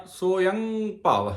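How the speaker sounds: ਸੋਯੰ said "soyaṅ", with a nasal end; ਸੋਯੰ ਭਵ, slow and clear; pronunciation of ਸੋਯੰ ਭਵ. Shown as a demonstration. Teacher repeats ਸੋਯੰ ਭਵ for the congregation. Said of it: "ਏਦਾਂ ਉਚਾਰਨ ਕਰਨਾ ਹੈ".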